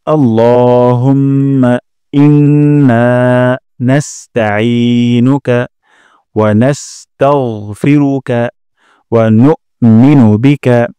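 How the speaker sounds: slow Arabic recitation. Shown as a demonstration. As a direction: chant the dua slowly and fully. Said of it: "আরেকবার উচ্চারণ করছি". (ধীরে তিলাওয়াতের সুরে দোয়া)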